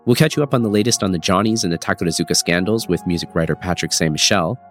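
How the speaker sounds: congested, stuffy voice from a cold; nasal voice. Real, not acted. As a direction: talk through a blocked nose. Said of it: "apologies for my nasally voice".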